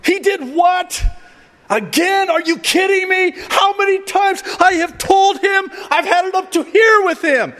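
very high, loud, fed-up scolding; shrill-pitched mock outrage from heaven; exasperated parent-God. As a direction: squeal it like a parent who's had it up to here. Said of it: "here's God in heaven going".

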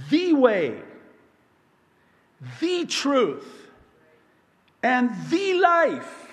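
high, loud pulpit yell; real preacher's yell, pitched high. Real, not acted. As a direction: shout it out to the congregation. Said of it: "I'm sorry if I'm yelling".

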